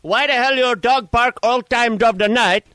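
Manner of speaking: lightly put-on Spanish-accented English, grumpy neighbour; a hint of a Spanish accent, complaining; lightly voiced Spanish-accented caller; mock Spanish accent. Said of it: "What is that accent?".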